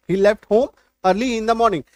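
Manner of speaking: steady slow dictation; slow classroom read; slow model sentence. Shown as a demonstration. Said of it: "है ना?".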